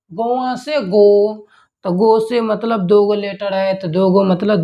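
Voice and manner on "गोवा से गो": गोवा से गो, each word drawn out slowly; slow mnemonic drill. Shown as a demonstration. Teacher slowly drilling the Goa mnemonic for students. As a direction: spell the memory trick out slowly. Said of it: "गोवा से याद रखिएगा गो".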